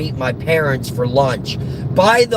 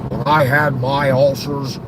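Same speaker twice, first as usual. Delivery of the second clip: dismissive, scornful grumbling about ailments; grumpy old grouch; 2 semitones lower than usual. Acted. Old man scoffing at gallstone complaints, scornful grumble. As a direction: grumble with contempt for others' pain.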